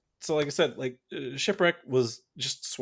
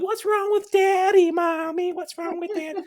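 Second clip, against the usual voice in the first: much higher little girl imitation; 3 dB louder than usual. Daughter asking mommy about daddy, high child voice. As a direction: whine it like a worried small child. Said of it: "the little daughter's always like".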